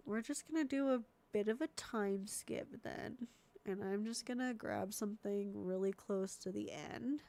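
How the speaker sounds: stuffy-nosed voice; congested. Real, not acted. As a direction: talk through a blocked nose. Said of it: "I'm so congested all of a sudden".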